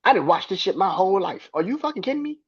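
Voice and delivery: hammed-up disbelief at a dumb remark; incredulous mock outburst. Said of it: "be like".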